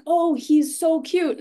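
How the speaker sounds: high, drawn-out cooing over a cute dog; gushing dog admirer. Retold or imitated.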